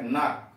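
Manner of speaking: नाक begun straight on n; no k sound before the n of नाक; silent k in नाक. Shown as a demonstration. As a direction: say knock as नाक, no k at the start. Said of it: "के यहां silent है".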